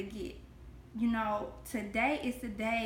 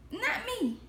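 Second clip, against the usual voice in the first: mock tearful child; 10 semitones higher than usual. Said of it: "And I would just cry".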